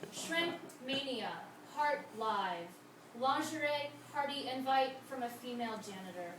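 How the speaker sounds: measured poem recital with falling line endings; deliberate spoken-verse cadence; poetry reading. Acted. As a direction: read it as a poem, each line set apart by pauses.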